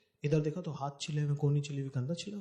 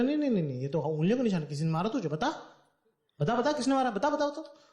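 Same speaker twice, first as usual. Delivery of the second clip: higher, pressing repeated demands; mother demanding her son say who hit him, insistent and higher; 5 semitones higher than usual. Retold or imitated. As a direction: push him to tell, rising higher.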